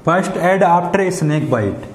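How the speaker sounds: very slow, word by word; slow dictation. Shown as a demonstration. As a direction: dictate it slowly so students can write. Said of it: "reading the topic slowly". (बहुत धीरे बोलकर लिखवाना)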